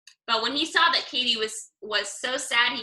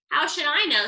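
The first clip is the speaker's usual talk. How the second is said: grumpy; 4 semitones higher, 4 dB louder than usual. Acted. Owl grumpy.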